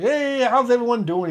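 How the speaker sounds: high, chirpy retold greeting; cheerful. Marine coming by the squad bay, all cheerful. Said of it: "He's all cheerful".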